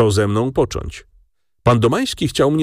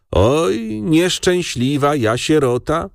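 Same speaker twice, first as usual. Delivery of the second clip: whiny lament; 8 semitones higher, slower than usual. Acted. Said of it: "jęknęła ciotka".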